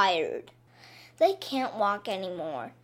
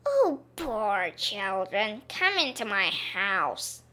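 sweet false witch; slower than usual. Acted. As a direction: lure them in kindly. Witch pretends kindness.

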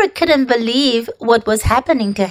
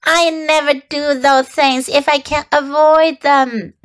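sour, squeaky rat grumble; 4 semitones higher than usual. Acted. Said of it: "replied the rat sourly".

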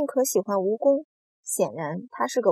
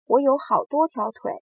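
boastful, higher and louder; proud; 5 semitones higher, 6 dB louder than usual. A narrator's reading. Centipede boasting to James about his legs, proud. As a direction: brag with lifted voice. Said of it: "蜈蚣自豪地回答道".

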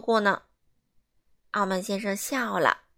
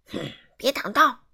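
put-on louder rude bark at a child; rude shout; 5 dB louder than usual. Mr Rude barking at a boy playing ball, rude shout. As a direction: snap at the boy to move. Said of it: "傲慢先生粗鲁地叫道".

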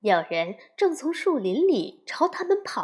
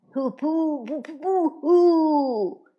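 mocking hen clucks, rising to a louder last cry; clucking like chickens; 4 semitones higher, 4 dB louder, much slower than usual. A narrator's reading. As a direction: cluck the no's like a taunting chicken. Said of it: "咯咯咯地叫着". (学母鸡咯咯叫嘲笑)

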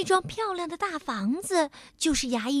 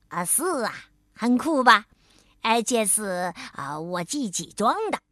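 proud; 3 semitones lower than usual. Acted. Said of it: "海狸尾巴医生自豪地说".

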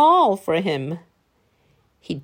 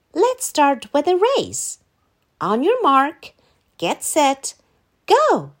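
race start call; 5 semitones higher than usual. Acted.

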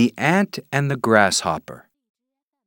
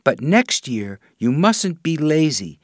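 tiny marching ant; 5 semitones higher than usual. Acted. Ant warns grasshopper kindly.

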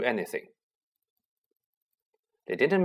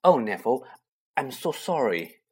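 miserable. Acted. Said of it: "said Hermione miserably".

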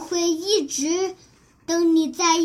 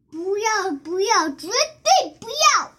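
pleading refusal; 4 semitones higher than usual. Acted. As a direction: refuse to let go of dad. Child refuses to part. (激动地大声拒绝)

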